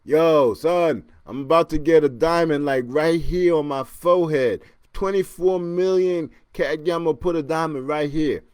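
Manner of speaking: loud, hyped-up rapper bragging; imitating a famous rapper. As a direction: boast about the forehead diamond like a flashy rapper. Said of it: "I'm imagining that's how he talks".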